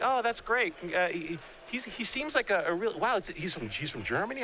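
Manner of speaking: a lightly voiced wondering mother; imitating his mom.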